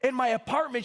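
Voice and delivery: put-on high-pitched, Italian-accented nonna; Italian grandmother. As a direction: imitate an emphatic old Italian grandma. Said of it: "And she's like".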